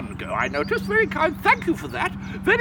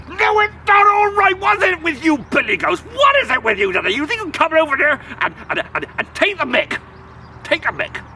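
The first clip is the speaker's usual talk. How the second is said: indignant troll. Acted. Troll refusing to let the goat pass, angry shouting. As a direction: splutter with outrage.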